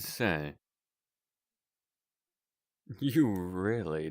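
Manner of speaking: a courteous circus ringleader. Acted. Holds ringleader character voice.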